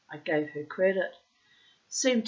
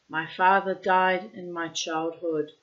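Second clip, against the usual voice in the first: put-on Russian accent. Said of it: "I'm putting in the Russian accent".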